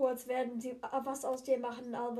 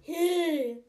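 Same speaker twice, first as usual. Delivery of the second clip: indignant; 4 semitones higher, 8 dB louder than usual. Acted. Indignant protest.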